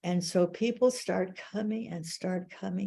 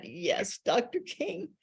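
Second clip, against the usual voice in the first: eager pitch; 4 semitones higher than usual. Retold or imitated. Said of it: "I said".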